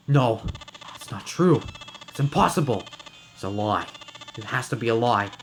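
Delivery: rising, stunned protest; shocked denial. Acted. Snake denying his sister's death to Ace, stunned. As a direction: refuse to believe it, voice climbing.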